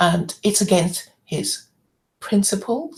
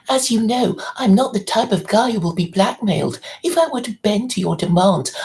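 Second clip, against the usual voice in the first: reading his email; 3 semitones higher than usual. Retold or imitated. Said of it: "let me just read out his email".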